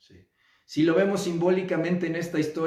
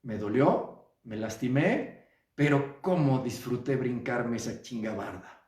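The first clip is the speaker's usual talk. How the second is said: content adult acceptance; 5 semitones lower than usual. Retold or imitated. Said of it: "te sobas y dices".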